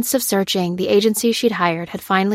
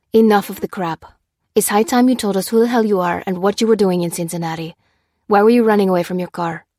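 louder, pressing demand that speeds up at the end; firm confrontation; 3 dB louder than usual. Acted. Lopez interrogating Maurice, stern and pushing. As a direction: cut through the crap and demand answers.

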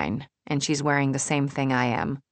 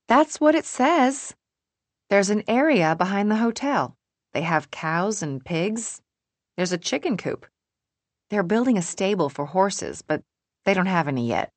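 higher voice, explaining the schedule; perky organizer friend; 5 semitones higher than usual. Acted. May describing the hotel's animals, perky explaining. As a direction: lift the pitch and explain carefully.

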